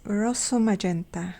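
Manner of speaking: lightly put-on Italian accent; bad Italian accent. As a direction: say it with a hammy, unconvincing Italian accent. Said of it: "I said it with an Italian accent".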